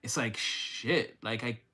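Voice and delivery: slow, breathless whisper of disbelief; stunned whisper. Real, not acted. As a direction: let it slip out under your breath. Stunned reaction to the reading.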